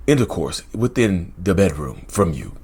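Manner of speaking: lightly mocking a by-the-book therapist host; mock proper presenter. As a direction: parody a dull clinical YouTuber. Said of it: "They don't sound like me".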